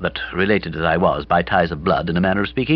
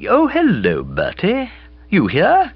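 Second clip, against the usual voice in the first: put-on higher, brighter girl's voice; Bobby's voice; 13 semitones higher, 3 dB louder, slower than usual. A narrator's reading. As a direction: play Bobby, lively and breezy. Bobby's voice in the reading.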